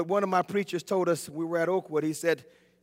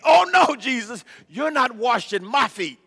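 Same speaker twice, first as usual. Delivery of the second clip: shocked protest; 4 semitones higher, 4 dB louder than usual. Acted. Peter voiced refusing Jesus.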